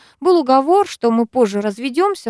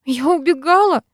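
sobbing; 8 semitones higher, 3 dB louder than usual. Acted. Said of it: "всхлипнула я".

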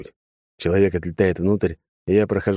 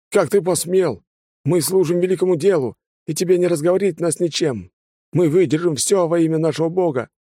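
zealous fanatic; 11 semitones higher than usual. A narrator's reading. Bound fanatic defying his interrogator, fervent high voice. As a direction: preach defiance at the captor.

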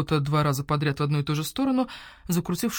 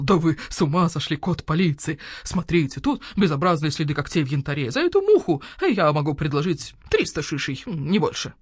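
owl shopkeeper voice. Acted. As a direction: voice the grumpy owl merchant. Owl appraising goods.

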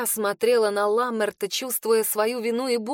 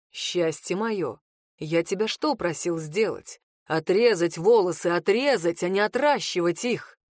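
sarcastic lower male voice; 4 semitones lower than usual. Acted. Rid reproaches her sarcastically.

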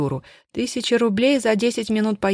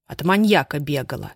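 grumbled; 4 semitones lower than usual. Acted. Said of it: "буркнула Анна".

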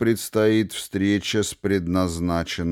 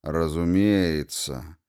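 calm; 3 semitones lower, slower than usual. Acted. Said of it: "спокойно согласился Фламберг".

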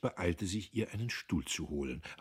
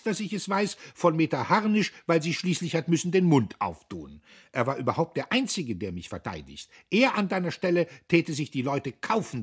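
higher, louder, pained rapture; pained enthusiasm; 9 semitones higher, 7 dB louder than usual. A narrator's reading. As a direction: cry it out with hurt passion. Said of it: "voll schmerzlicher Begeisterung". (voll schmerzlicher Begeisterung, höher und lauter)

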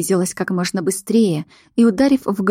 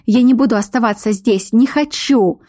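higher, louder cry of refusal; shouting; 3 semitones higher, 3 dB louder than usual. Acted. Heroine yells at the werewolf before running off. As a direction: throw the last words at him. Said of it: "Закричала".

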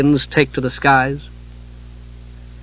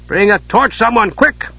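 hoarse shout; 8 semitones higher than usual. Acted. Knight calling for light at the blood, urgent shout. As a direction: yell for help across the dark room. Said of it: "gave a hoarse shout".

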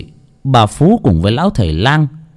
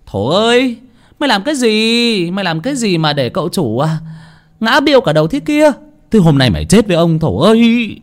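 high-pitched furious master's scolding; enraged high-voiced tirade; angry yelling; 9 semitones higher than usual. A narrator's reading. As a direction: holler at the servant, voice pitched right up. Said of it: "có tiếng người đàn ông quát lên".

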